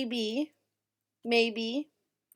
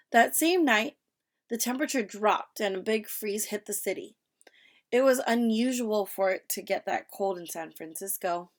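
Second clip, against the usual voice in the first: expressive read-aloud, lifted opening; reading with intonation. Shown as a demonstration. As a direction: read aloud, stretching some words. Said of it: "we're using intonation".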